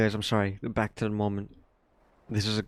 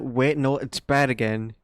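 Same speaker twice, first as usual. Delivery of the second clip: sudden surprise; 3 semitones higher, 4 dB louder, slower than usual. Real, not acted. Tasting the cold drink, suddenly surprised. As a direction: snap out a sudden realisation.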